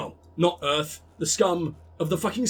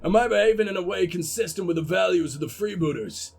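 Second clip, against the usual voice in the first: put-on recovered American accent, Cockney held back; attempted American gruff. Coach questioning the team's values, put-on American accent. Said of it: "I can't keep the Cockney out of my voice".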